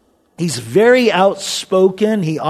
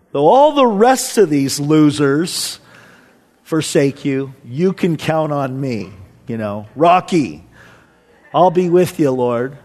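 lightly acted boastful disciple; mock self-assured pledge of loyalty; cocky; 4 semitones lower than usual. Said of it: "Peter was cocky".

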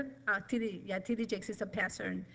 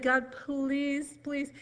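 pleading; 4 semitones higher, much slower than usual. Retold or imitated. Retold desperate prayer for healing.

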